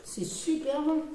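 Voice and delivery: chewing while talking; talking between bites; mouth full of chips. Real, not acted. Seen 0: speaker unsure; woman eats chips with hand at mouth early.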